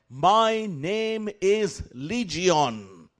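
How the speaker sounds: slow, dragged-out demon voice; deep guttural demon voice. Retold or imitated. Demon naming itself to the preacher, slow guttural. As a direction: drawl it out low like a demon. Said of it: "deep, guttural voice within us said".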